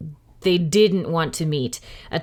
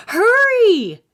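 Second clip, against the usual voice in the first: higher, louder, slow desperate wish; Jack shouting; 14 semitones higher, 8 dB louder than usual. A narrator's reading. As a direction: shout the wish with all hope. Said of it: "Jack yelled".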